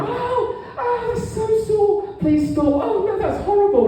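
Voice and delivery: high, drawn-out wailing in pain; mock pained cries. Woman next door crying out under the tattoo needle. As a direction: whimper like it really hurts. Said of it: "I hear next door".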